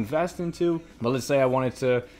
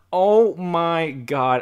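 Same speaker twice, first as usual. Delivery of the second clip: mock swooning gasp; 4 semitones higher, 6 dB louder, much slower than usual. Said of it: "be like".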